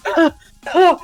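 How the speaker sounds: loud, high mock gasping for air; exaggerated struggling gasps. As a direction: gasp theatrically, putting on a show of breathlessness. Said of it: "he puts up this huge show".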